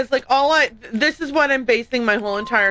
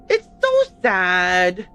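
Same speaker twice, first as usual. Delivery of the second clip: mock sobbing; 3 semitones lower, 4 dB louder, much slower than usual.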